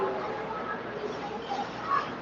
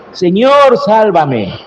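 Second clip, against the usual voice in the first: demonstrated cry to God; 3 semitones higher, slower than usual. Shown as a demonstration. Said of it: "gritarle a él en tu oración".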